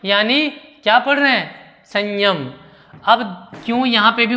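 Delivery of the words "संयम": संयम with the dot sounded as palatal ञ; nasal as ञ. Shown as a demonstration. Teacher answering what is read, संयम with a palatal nasal. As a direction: say संयम as 'sanyam', a palatal n before य. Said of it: "ञ में".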